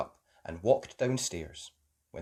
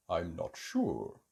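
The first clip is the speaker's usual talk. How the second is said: sleepy, slow and yawning; 6 semitones lower, 5 dB quieter, slower than usual. Acted. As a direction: yawn through the words. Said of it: "he said, yawning".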